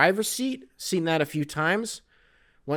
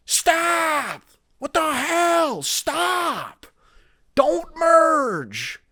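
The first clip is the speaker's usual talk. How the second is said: Lewis Black rant; 13 semitones higher, much slower than usual. Retold or imitated. Imitating Lewis Black as the blind spot alarm, shouting. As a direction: blow up in comic fury. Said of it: "Lewis Black".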